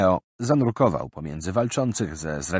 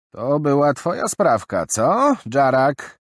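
higher, louder pointed reminder; old merchant woman; 8 semitones higher, 7 dB louder, slower than usual. Acted. Grey old woman reminding the caravan, stern. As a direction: recall the earlier theft sternly.

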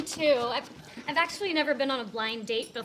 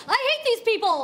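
grumpy waiter; 8 semitones higher than usual. Retold or imitated. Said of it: "he's all".

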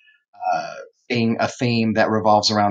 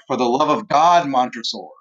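mild, slightly raised plea; acted desperation. Teacher voices Fortunato begging Montresor behind the wall, mildly desperate. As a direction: plead with a touch of desperation. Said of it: "like, desperate".

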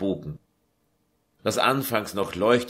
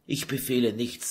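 plaintive; 3 semitones higher, 4 dB quieter than usual. Acted. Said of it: "sagte sie klagend".

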